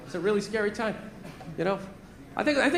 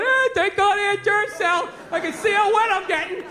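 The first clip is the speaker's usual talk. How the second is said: higher-pitched commercial actor, lightly hammed; mock relief in a higher voice; relieved ad character; 6 semitones higher than usual. Stranded driver in an old battery commercial, mock relieved.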